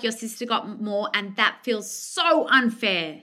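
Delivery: slow, gentle validation; slow empathetic reflection. Shown as a demonstration. Coach modelling empathy to a parent, slow and gentle. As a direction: mirror the feeling back slowly. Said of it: "I can see that you really feel".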